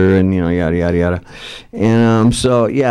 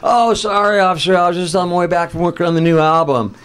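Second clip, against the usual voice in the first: mock apologetic; 6 semitones higher than usual. Acts his excuse to police.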